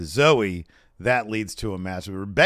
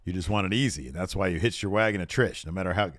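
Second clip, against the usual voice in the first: noir movie read; 2 semitones lower, faster than usual. Retold or imitated. Fan reading Becky's promo like a lightly voiced noir detective. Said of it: "reading this like a friggin' noir movie".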